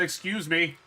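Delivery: firmer excuse me. Real, not acted. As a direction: insist on "Excuse me", pushing the "me". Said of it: "I said".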